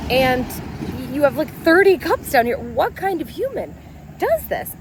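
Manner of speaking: incredulous. Retold or imitated. Incredulous rant at stepson.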